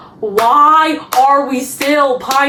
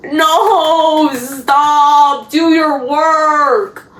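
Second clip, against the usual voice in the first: slow, drawn-out exasperated scold; mock scolding; much slower than usual. Vlogger scolding Jeremiah for slacking at work, drawn-out exasperation. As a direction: stretch each word in weary reproach.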